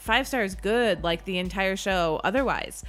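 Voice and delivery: upbeat, salesy promo voice; podcast ad read. Acted. Host asks listeners to rate and subscribe, in a salesy ad voice. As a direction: pitch it like a cheesy radio spot. Sponsor-style ad read over music.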